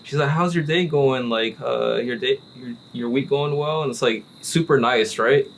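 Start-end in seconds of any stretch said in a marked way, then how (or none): 0.3-3.8 put-on white girl voice. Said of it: "the white girl voice".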